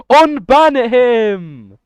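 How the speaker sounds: loud, high, slow shout; loud plea. Real, not acted. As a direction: stretch out a loud, pleading yell. Demanding the banned viewer return.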